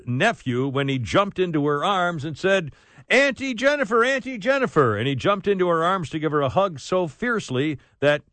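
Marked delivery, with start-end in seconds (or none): 3.1-4.9 put-on high, eager child calling. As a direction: call out like an excited kid. Nephew's call voiced in story.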